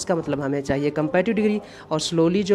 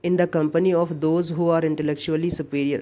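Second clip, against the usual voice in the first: reading the question out slowly and a bit louder; 3 dB louder, much slower than usual. Shown as a demonstration. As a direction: dictate the sentence to students. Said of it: "forty nine". (धीरे और ज़ोर से पढ़ना)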